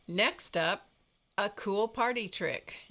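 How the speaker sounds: mildly showy retold announcement; upbeat announcement. Retelling the friend's garage video message, mock upbeat announcement. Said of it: "And he goes".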